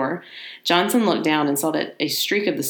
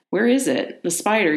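calling out; 4 semitones higher than usual. Acted. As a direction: call out to find the spider. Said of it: "he called out".

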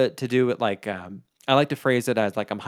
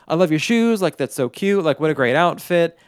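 higher, louder gushing praise; gushing compliment; 5 semitones higher, 5 dB louder than usual. Shown as a demonstration. Guest praising a character's outfit, gushing. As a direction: hype them up with compliments.

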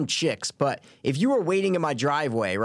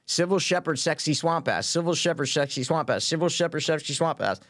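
tongue twister; 3 semitones higher than usual. Shown as a demonstration. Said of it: "Five times fast".

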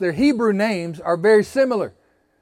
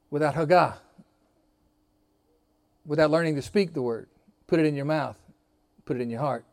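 quiet intimacy; 4 semitones lower, 5 dB quieter than usual. Acted. Preacher drops to intimate tone.

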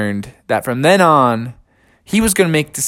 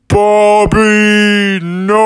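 high, loud cry of alarm; shouting his name in panic; 7 semitones higher, 5 dB louder, much slower than usual. Acted. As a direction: call out after a falling friend. Friends see Bubby crash.

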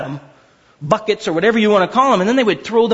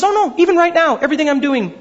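voicing Paul; 8 semitones higher, faster than usual. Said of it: "And he says".

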